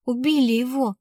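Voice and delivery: slightly tearful, plaintive confession; mildly sobbing. Acted. Girl breaking news of a killing, mildly sobbing. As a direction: let it out with a small whimper. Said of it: "всхлипнула девчонка".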